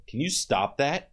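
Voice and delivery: slow, stern demand. Retold or imitated. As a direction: retell a firm telling-off, slowly. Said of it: "in a really stern voice".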